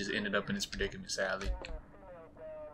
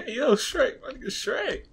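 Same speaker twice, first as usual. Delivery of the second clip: high, drawn-out delighted call; excited greeting; 13 semitones higher, 4 dB louder, slower than usual. Real, not acted.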